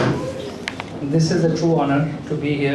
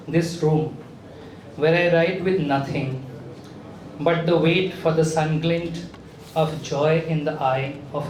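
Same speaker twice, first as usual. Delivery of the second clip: short phrases set apart by pauses; measured recital of a reflective poem; poem reading. Acted. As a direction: read the verse deliberately, line by line. Reads a poem aloud.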